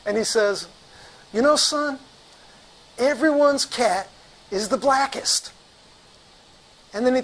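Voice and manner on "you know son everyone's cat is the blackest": stern doctor's pronouncement, raised pitch; Doctor Roscoe. Retold or imitated. Doctor turning at the door to the rep, sternly pronouncing. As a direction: deliver a slow, weighty put-down. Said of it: "he looks me right in the eyes".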